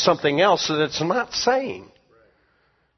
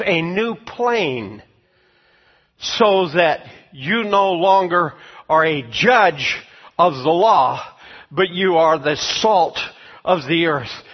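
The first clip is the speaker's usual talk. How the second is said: slow, louder, solemn voice of God; voicing God; 4 dB louder, slower than usual. Preacher voicing God's words to believers, slow and louder. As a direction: proclaim it slowly as God speaking to his people. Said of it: "He says".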